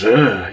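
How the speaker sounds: short, throaty groan of anxiety; frustrated groan. Shown as a demonstration. Showing the feeling rising from the stomach, frustrated groan. Voicing the anxious gut feeling.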